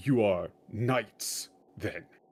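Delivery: put-on, slow, stylized samurai voice. Imitating a japanese english speaker putting on the samurai voice: put-on samurai voice. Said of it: "He's doing a samurai voice".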